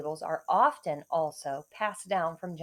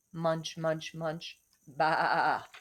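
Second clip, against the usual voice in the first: sheep munching; 4 semitones lower, much slower than usual. Acted. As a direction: chew it out like a grazing sheep. Sheep voice in story.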